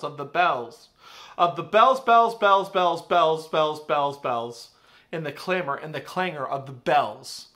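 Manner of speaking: dramatic poem reading; rising then fading recital. Acted. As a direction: build and clang the bells. Recites closing alarm lines.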